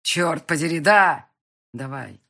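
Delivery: loud angry curse; Sokolovsky swears on the phone, loud; swearing. A narrator's reading. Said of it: "выругался Соколовский".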